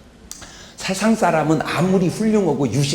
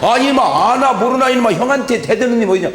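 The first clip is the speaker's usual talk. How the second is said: scolding father; 5 semitones higher than usual. Acted. Father scolds son, acted quarrel.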